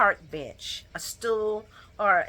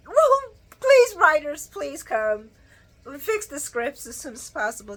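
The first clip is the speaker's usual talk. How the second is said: mock plea; 5 semitones higher than usual. Real, not acted. Begging the show writers.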